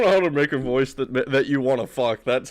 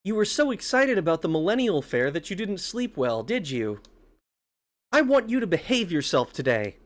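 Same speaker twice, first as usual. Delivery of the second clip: lightly voiced mother, gently chiding; slightly raised motherly voice; mom voice; 4 semitones higher than usual.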